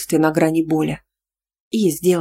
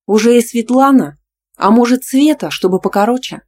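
higher, louder jealous jab; jealous raised voice; 6 semitones higher, 6 dB louder than usual. A narrator's reading. Jealous girlfriend raises her voice about the other woman. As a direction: raise your voice, mocking the name. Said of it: "повышая голос".

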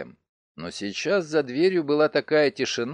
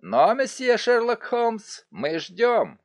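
mocking; 7 semitones higher, slower than usual. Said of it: "В его голосе слышалась издёвка".

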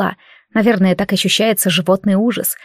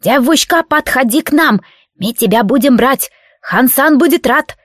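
creaky bandit voice; 3 semitones higher than usual. Acted. Bandit voice, same as before.

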